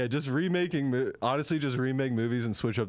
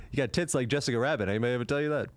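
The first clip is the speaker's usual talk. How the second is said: put-on sleazy old-time director; much faster than usual. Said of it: "casting couch director from the twenties".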